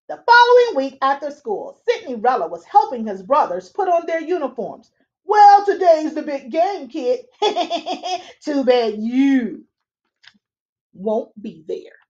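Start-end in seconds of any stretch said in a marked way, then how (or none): 5.2-12.0 lightly voiced smug brother with a laugh; a hint of a mocking older brother; taunting big brother. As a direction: rub it in with a chuckle.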